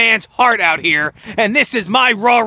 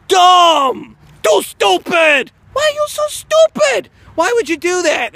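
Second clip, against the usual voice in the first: louder, much higher, stretched shout; yelled insult at the company; furious yell; 9 semitones higher, 3 dB louder, slower than usual. Real, not acted. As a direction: berate the bookers at full voice. Yelling at bookers.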